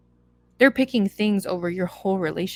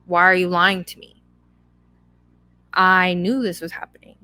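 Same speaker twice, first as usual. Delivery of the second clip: a raised, accusing yell at a cheating partner; mock yelling; 4 dB louder than usual. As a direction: voice the betrayed partner's outburst, louder. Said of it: "scream and yell and be like".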